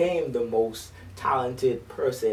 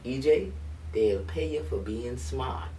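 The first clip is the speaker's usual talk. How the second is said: put-on mother's words in a light Bahamian accent; gently Bahamian-accented mother. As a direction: quote mom with a hint of Bahamian lilt. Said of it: "now I'm gonna say it in my Bahamian accent".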